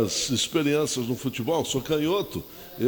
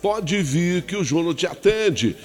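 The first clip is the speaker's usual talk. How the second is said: upbeat sing-song sponsor plug; radio ad read. Acted. Host plugs the local gas dealer, upbeat ad read. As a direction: sell the gas shop like a radio pitchman.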